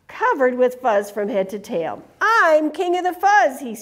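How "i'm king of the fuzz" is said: mild snarl. Acted.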